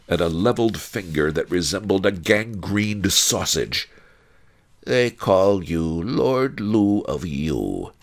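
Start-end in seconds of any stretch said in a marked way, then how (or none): 4.8-7.9 slow, higher growl of a monstrous matriarch; slow contemptuous growl. A narrator's reading. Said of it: "she growled".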